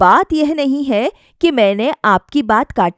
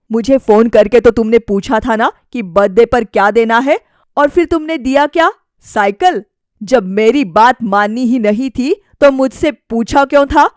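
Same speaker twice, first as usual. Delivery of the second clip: annoyed husband. Acted. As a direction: confront her about her choices. Husband confronts wife.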